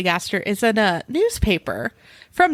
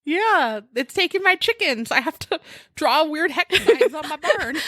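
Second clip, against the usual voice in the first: higher-pitched pretend complaint; playfully whiny worker's excuse; mock excuse call; 6 semitones higher than usual. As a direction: plead a silly excuse, half laughing. Acted excuse for calling out.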